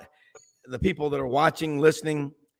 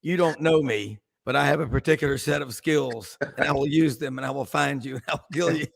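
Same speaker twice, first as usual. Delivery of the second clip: lightly voiced movie threat, calm and measured; a hint of a cool, deadly kidnapper warning; Liam Neeson in Taken. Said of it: "I sound like Liam Neeson in Taken".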